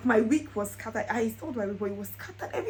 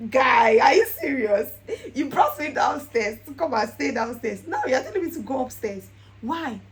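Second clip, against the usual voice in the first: mock protest; 7 dB louder than usual. Retold protest to fiance.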